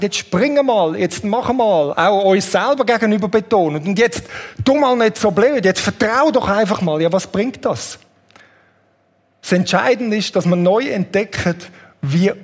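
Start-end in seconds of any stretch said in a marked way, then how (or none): 0.0-7.0 lauter, drängender Antreiber; antreibend betont. Retold or imitated. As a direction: treib dich selbst zum Sprung an. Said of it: "betont und sagt". (lauter Selbstantreiber, der Druck macht)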